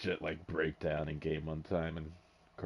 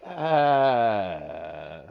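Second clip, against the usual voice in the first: eager pitch; 6 semitones higher, 9 dB louder, much slower than usual. Retold or imitated. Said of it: "And I'm like".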